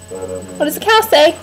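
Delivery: slow coaxing repeat. Shown as a demonstration. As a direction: stretch it out slowly for a little one. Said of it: "repeated slower for toddler".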